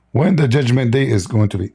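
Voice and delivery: losing voice, a bit hoarse. Real, not acted. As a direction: speak through a tired, hoarse throat. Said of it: "I'm losing my voice".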